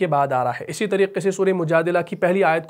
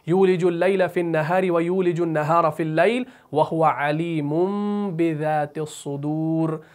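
Quran recitation; slower than usual. Shown as a demonstration. Teacher recites another example verse, chant slowing at the end. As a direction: chant that slows to a stretched close.

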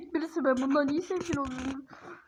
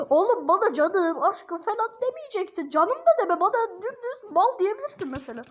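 exasperated scolding; 5 semitones higher than usual. Real, not acted. Telling the chatbot off.

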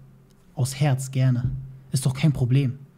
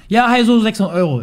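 higher, louder put-on voice of the wife; mock wife voice; 6 semitones higher, 8 dB louder than usual. Husband mimicking his wife announcing the price, higher and louder. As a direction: play her breezy phone call.

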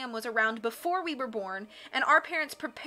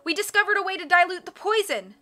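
high, loud urgent call; raised, urgent girl's cry; cried out; 8 semitones higher, 8 dB louder than usual. A narrator's reading. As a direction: shout the news across the water. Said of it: "Violet cried".

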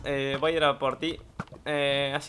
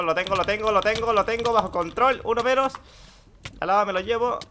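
rising, louder triumph; hyped as the kill lands; excited; 6 semitones higher, 5 dB louder than usual. Real, not acted. Winning a fight in game. (emoción creciente)

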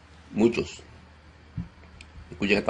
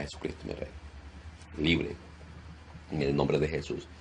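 hushed prayer. Acted. Soft prayer for the Holy Spirit.

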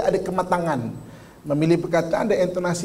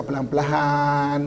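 soft, slow speech; 4 semitones lower, much slower than usual. Shown as a demonstration. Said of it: "dia akan bercakap".

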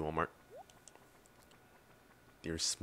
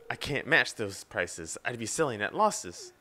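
mock sad shopkeeper; slower than usual. Voicing Pierre lamenting.

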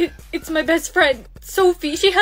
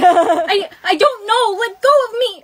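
higher, louder struggling plea; panicked protest; 4 semitones higher, 6 dB louder than usual. Acted. Girl grabbed by attacker, panicked and loud. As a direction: cry out to be released.

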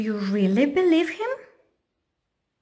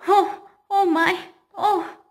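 high, louder frightened cry; scared square afraid of snakes; 8 semitones higher, 5 dB louder than usual. Acted. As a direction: gasp it out in fright. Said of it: "was afraid of snakes".

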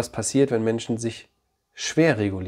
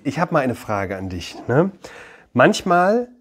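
usual speaking voice

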